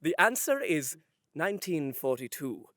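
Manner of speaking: low, slow mock-solemn delivery; hammed-up grave pronouncement; dramatic quiz answer. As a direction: pause for effect, then drag out the ending. Acting the contestant's dramatic answer.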